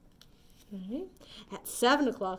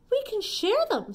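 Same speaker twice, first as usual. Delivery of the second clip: ladybug voice; 10 semitones higher, 5 dB louder than usual. Acted. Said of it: "suggested the friendly ladybug".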